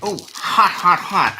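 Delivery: sharp yelps of pain; hot hot hot, real ouch; burned fingers. Real, not acted. Grabbed hot pan by hand.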